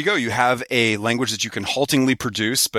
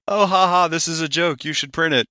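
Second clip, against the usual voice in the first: mocking voice; 6 semitones higher than usual. Mocking fake-joke submitters.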